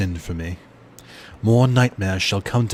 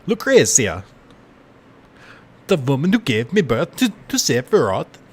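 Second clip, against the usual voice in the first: Vincent voice; 6 semitones higher, 4 dB louder than usual. Acted. Streamer voicing Vincent from his coffin, louder brooding delivery. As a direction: intone it darkly like a cursed gunman. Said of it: "too questionable of an accent".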